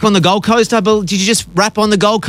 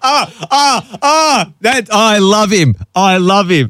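high, gushing delight; delighted squeal; 4 semitones higher, slower than usual. Real, not acted. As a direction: squeal with joy. Host reacts to slang joke.

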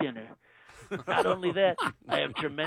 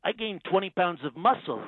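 Trump impression. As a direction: play the president, smug and self-assured. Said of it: "Donald Trump".

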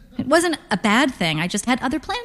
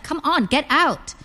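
high, drawn-out exasperated plea; slow it down and plead, pitched up; 7 semitones higher than usual. A narrator's reading. Daughter coaxing mother out of the car, exasperated.

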